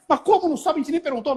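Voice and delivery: high-pitched protest; imitated exasperated wife. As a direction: argue it high, as the baffled wife. Wife arguing with husband, acted.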